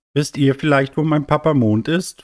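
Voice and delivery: hohe, suchende Kinderstimme; fragender kleiner Stern. Acted. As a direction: frag hoch und kindlich, mit steigendem Ende. Kleiner Stern fragt nach Papa. (kindlich fragend)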